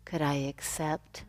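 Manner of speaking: guided meditation. Real, not acted. Yoga teacher offering words to say in silence, meditative.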